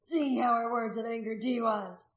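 fearful warning. A narrator's reading. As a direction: warn the crowd of an angry god. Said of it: "Gundred cried out in fear".

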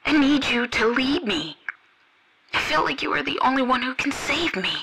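high, soft, pleading woman's voice; tearful pleading. Acted. Devotee begging him not to hang up, high and tearful. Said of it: "she started to cry".

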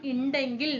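ഉണ്ടെങ്കിൽ with an opening "i" sound, "indengil"; colloquial pronunciation. Shown as a demonstration. Teacher linking money to the word indal, colloquial "indengil" for ഉണ്ടെങ്കിൽ. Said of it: "എന്നാണ് നമ്മൾ സാധാരണ പറയാ".

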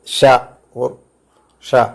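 sha hushed and soft. Shown as a demonstration. Teacher demonstrates the soft German ch sound sha. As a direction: breathe out sha gently. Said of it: "it is pronounced as".

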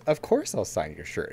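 lightly voiced, slow, calm and kind; a hint of an easygoing driver, slow; calm reply. Driver calmly answering the young fan, slow and easy. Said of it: "Ty just very calmly turns around".

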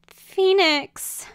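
high, loud pleading whimper. Acted. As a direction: whimper out to your only hope. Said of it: "whimpered Quixotic".

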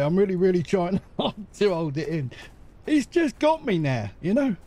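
laughing through the words, trying to hold it in; real giggle fit breaking through; fighting the giggles. Real, not acted. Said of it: "I can feel a giggle coming up again".

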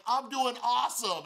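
high, slow, over-the-top enthusiasm; eager answer. Retold or imitated. Answering the speaker's greeting, overly eager. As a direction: stretch it out like the keenest fan.

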